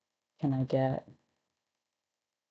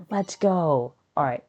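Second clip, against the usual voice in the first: excited cheer; 3 semitones higher, 3 dB louder than usual. Real, not acted. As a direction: celebrate the win out loud. Celebrating the grade.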